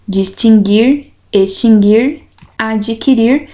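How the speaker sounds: distinguir, extinguir, adquirir with no u sound, listed with rising tune; careful distinguir, extinguir, adquirir, the u left silent. Shown as a demonstration. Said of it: "não tem o U pronunciado".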